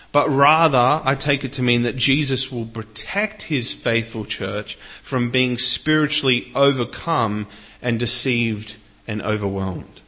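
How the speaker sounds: normal talking voice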